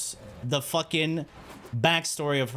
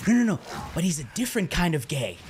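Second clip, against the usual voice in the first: mom's voice; faster than usual. Retold or imitated. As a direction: rush it like an insistent mom. Mom's reply voiced on phone.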